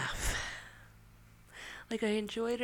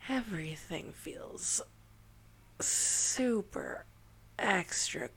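slow, lowered stoned drawl; 4 semitones lower, slower than usual. Real, not acted. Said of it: "I am pretty stoned".

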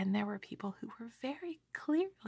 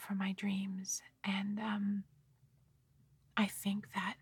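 ASMR whisper. Real, not acted. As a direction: whisper it close to the mic, like a secret.

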